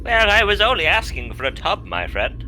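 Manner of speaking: posh character voice. Acted.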